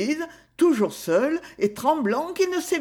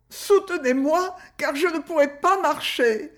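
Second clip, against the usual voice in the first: higher, faint rasping plea; rasping groan; 7 semitones higher than usual. A narrator's reading. Sissi near fainting asking to be held up, rasping. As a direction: gasp it out as if about to collapse. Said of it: "râla Sissi".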